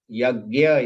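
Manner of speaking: "yagya" without the n, "yag-ya"; easier pronunciation. Shown as a demonstration. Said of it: "is easier to pronounce".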